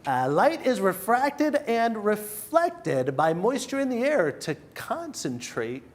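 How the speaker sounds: slow, careful nerdy announcer voice; nerd voice. Pretend. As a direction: read it like a science nerd. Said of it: "Let me get my nerd voice on".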